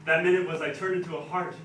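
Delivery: theatrical Shakespeare monologue; stage verse with dramatic pauses; Duke Orsino. Acted. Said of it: "Duke Orsino's speech at the beginning".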